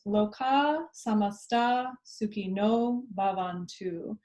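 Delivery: slow, clear spoken chant text; spoken slowly. Shown as a demonstration. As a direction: speak each syllable slowly and clearly. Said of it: "So I'll speak it first".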